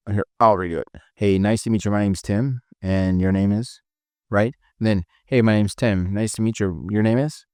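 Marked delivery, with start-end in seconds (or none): 1.2-3.8 measured introduction, pitched slightly down; boss tonality. Shown as a demonstration. Trainer modelling an introduction for reps, boss tonality. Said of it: "Going down". 5.3-7.4 even buddy-style introduction; pretty even. Shown as a demonstration. Trainer modelling an introduction between equals, pretty even tone. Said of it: "Pretty even".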